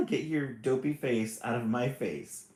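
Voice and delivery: the snarl breaking into a laugh; laughing through it. Acted. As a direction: try to stay grumpy but laugh. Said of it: "snarled brother".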